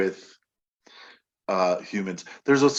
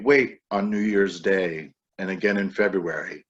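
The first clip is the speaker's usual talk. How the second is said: measured recital with called-out waits; poem reading. Acted. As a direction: poet reading a bird poem aloud. Reads poem Here.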